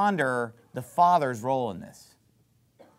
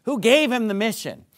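high, loud rhetorical questions; forceful pulpit questioning; rousing preaching; 7 semitones higher, 5 dB louder than usual. Real, not acted. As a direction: press the congregation with a raised voice.

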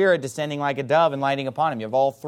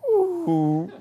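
gleeful ooh; 13 semitones higher than usual. Retold or imitated. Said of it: "they're just like".

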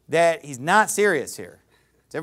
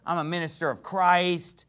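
bragging. Acted. Preacher mimicking Paul bragging of his pedigree, mock boastful. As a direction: imitate a self-important boaster. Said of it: "and he's bragging".

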